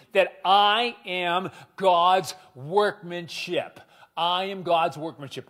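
slow model line. Shown as a demonstration. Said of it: "Would you say that with me".

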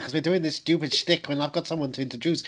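lively put-on Scouse; playful Liverpudlian shtick while hosting; Liverpudlian accent. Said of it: "introduce them in that accent".

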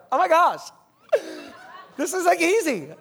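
high, loud mock excitement with a laugh; pumped. Wife greeting husband at mile seven, imitated as pumped. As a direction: imitate someone giddy and full of energy. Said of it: "she's just pumped".

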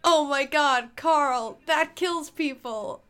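a hint of a shocked cartoon llama; llamas with hats quote. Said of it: "You know llamas with hats?".

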